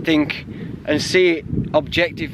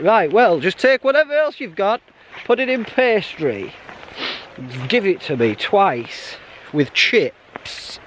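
exasperated high order; 4 semitones higher than usual. Pretend. Hiker's exasperated pub order.

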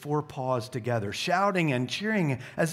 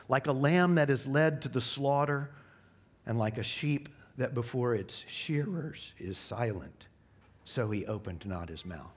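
scripture reading. Acted. Reads Isaiah scripture solemnly.

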